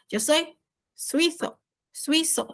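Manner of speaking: suizo with the Z as a plain S, slow; soft Z as S. Shown as a demonstration. Teacher modelling suizo for the class, slow. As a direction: say suizo slowly, Z hissed like S. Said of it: "ponha a língua entre os dentes".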